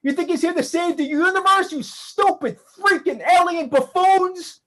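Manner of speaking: mocking rage. David jeering at the aliens, full of scornful fury. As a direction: sneer at them with scornful fury.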